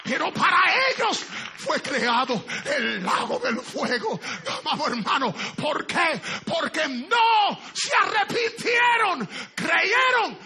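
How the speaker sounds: loud, high, drawn-out preaching cry; preaching at full force. Acted. Preacher crying out that even demons tremble. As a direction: cry it out, slowly, building.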